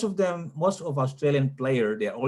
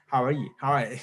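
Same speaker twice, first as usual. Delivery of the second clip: lightly imitated American greeting; American accent; much faster than usual. Shown as a demonstration. Comparing accents for learners, light American accent. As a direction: demonstrate everyday American English. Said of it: "many Indonesian actually speak American".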